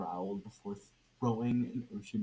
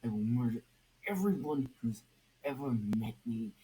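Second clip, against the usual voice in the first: menacing threat; 3 dB louder than usual. Acted. Red Hood threatens the crowd.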